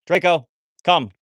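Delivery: high, loud, slow call across the yard; loud dog recall. Real, not acted. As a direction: call the dog back, drawn out. Calling the dog.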